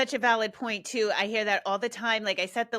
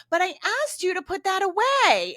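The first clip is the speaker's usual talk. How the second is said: higher, louder mock whine; whining parent; 8 semitones higher, 5 dB louder than usual. Helpless parent whining at their kid, mock whine. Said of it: "they start whining with their kid".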